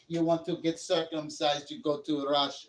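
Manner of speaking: put-on Serbian advice-giver; mock Serbian accent. Streamer staying in his Serbian bit, mock Serbian accent. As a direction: carry on the fake Serbian accent. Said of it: "I'm from Serbia".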